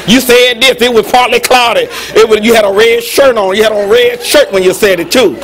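mock accusing recital, insistent; accusing wife. Wife recalling an old argument to husband, insistent mock accusing. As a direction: hammer out each remembered detail like evidence.

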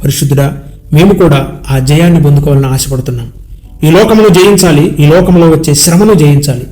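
earnest spoken prayer, addressed to God in rolling phrases; congregational prayer. Real, not acted. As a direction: intercede for the congregation, list after list.

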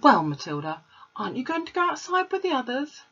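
lightly voiced gentle teacher; Miss Honey. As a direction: ask it as a kind young teacher.

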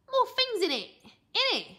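put-on high, loud kid voice, stumbling over the word; a boy groping for nutritious; cheeky boy voice. A narrator's reading. Boy character voice.

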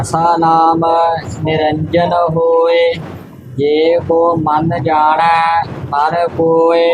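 scripture recitation. Acted. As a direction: recite it evenly on one note.

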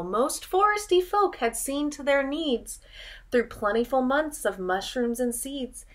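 put-on lilting read-aloud rhythm for children; storybook narration. A narrator's reading. Teacher reading a picture book to children, lilting. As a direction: read the rhyme like a bedtime story.

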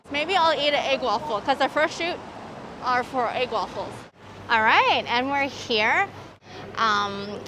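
muffled behind mask; speaking with covered mouth; through a face mask. Real, not acted. Seen 2: Surgical mask covers mouth and nose throughout; briefly off-camera 14-16s.

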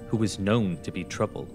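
ordinary delivery, nothing marked

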